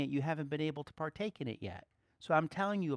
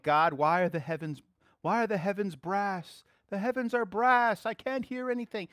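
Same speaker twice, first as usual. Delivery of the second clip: frustrated complaint; 5 semitones higher, 4 dB louder than usual. Retold or imitated. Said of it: "they think".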